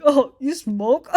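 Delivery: slow, drawn-out coy question; mock coy. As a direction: imitate someone being coy. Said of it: "don't fucking be coy".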